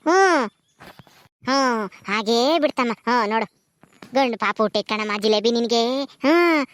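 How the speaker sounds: gently calm the new mother; midwife voice. Acted. Midwife after delivery, soothing.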